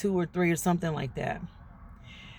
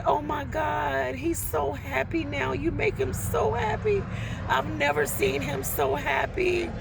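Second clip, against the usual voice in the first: gushing mom; 6 semitones higher than usual. Retold or imitated.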